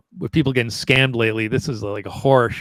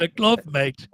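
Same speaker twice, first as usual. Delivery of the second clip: a light Scouse imitation, pitched a bit higher; mock Scouse; 6 semitones higher, much slower than usual. Repeating the guest's punchline to the hosts, light mock Scouse. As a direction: lightly echo the Liverpool accent. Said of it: "this is Scouse now".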